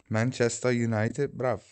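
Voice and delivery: mock Manchester accent; British accent. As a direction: play at a Mancunian accent. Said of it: "Terrible accent".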